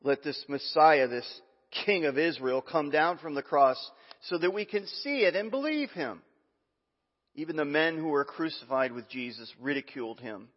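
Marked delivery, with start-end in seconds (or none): 0.0-6.2 scoffing priests. Acted. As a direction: scoff at him with contempt. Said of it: "they scoffed".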